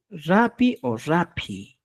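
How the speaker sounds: Rapi o rapi said very slowly; careful pronunciation demo. Shown as a demonstration. Teacher modelling the right word, very slow. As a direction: draw out Rapi o rapi syllable by syllable. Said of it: "¿Qué vas a decir?".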